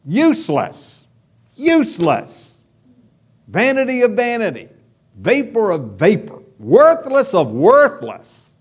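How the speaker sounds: mock the preacher's anguished cry; dramatic lament. Pastor acting out Solomon's cry of futility, dramatic. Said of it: "he is just dramatically saying".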